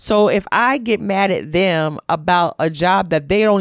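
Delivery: ordinary delivery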